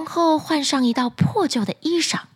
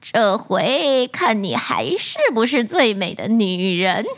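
fierce; 3 semitones lower than usual. Acted. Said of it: "凶狠地说完".

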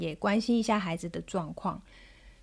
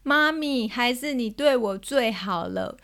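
drawn-out, slightly raised pouting voice; imitated tearful child; 2 semitones higher, slower than usual. Daughter thanking mum after a tantrum, imitated tearful pout. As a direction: mimic a child talking through tears, stretching the words. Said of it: "然后一边哭跟我说".

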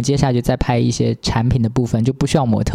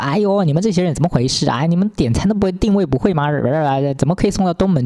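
higher, nagging mock driver; whiny driver complaint; 4 semitones higher than usual. Mimicking a grumbling driver, whiny and higher. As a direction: whine like an annoyed driver. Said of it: "那个司机就开始唧唧歪歪的".

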